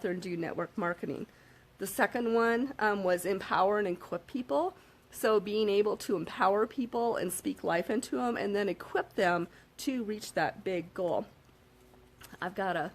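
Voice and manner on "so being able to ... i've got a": slightly hoarse, rough throat. Real, not acted. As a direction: speak through a hoarse throat. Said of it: "little bit of a hoarse voice".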